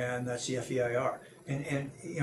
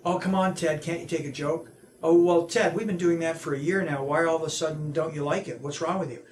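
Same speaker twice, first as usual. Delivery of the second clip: mock bully; 3 semitones higher, 5 dB louder than usual. Mocking bully voice acted out.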